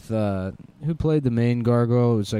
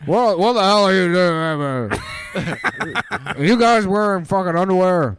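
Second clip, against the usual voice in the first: mock outrage; 8 semitones higher, 5 dB louder than usual. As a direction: bellow it in mock shock. Mock outraged gargoyle shout.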